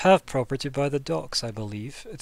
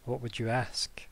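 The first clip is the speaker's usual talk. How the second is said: whisper; 7 dB quieter, slower than usual. Acted. Official asks party's price.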